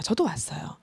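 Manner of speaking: hushed, breathy admission; whispered confession. Real, not acted. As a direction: let it slip out in a whisper. 속삭이는 고백. (속삭이듯 털어놓는 고백)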